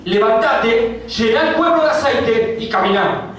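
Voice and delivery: high, very slow commanding God; a hint of God's stern command. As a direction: draw out "Levantate" as a divine order.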